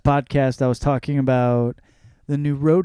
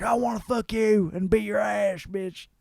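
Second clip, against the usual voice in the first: higher-pitched mock drunken buddy; drunk friend; 6 semitones higher than usual. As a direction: imitate a drunk pal coming on too strong. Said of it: "when you fucking get drunk with your friends".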